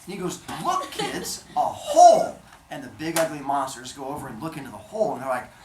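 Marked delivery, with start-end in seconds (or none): 0.6-2.4 high, fake-excited coaxing; luring the kids. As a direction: show children a pretend wonder, voice pitched up. Father Sky lures monsters to the pit.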